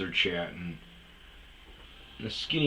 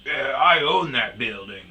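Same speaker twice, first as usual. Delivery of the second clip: smug, needling boast, a bit higher; antagonistic; 5 semitones higher, 8 dB louder than usual. Retold or imitated. Old guy goading the women at the bar, antagonistic and smug. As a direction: lean in and goad him with it.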